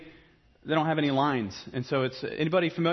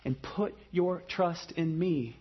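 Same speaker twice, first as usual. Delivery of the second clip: gentle invitation; 2 semitones higher than usual. Retold or imitated. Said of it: "And so Jesus says".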